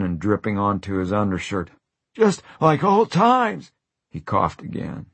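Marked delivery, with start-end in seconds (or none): 2.1-3.7 high and slow, strained delight. Acted. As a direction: squeeze the words out past a cough. Dying Jack, coughing.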